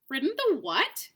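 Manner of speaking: scornful, incredulous sneer; mock the very idea of a donkey; contemptuous. A narrator's reading. Horse sneering at the boy with contempt. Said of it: "retorted the horse with extreme contempt".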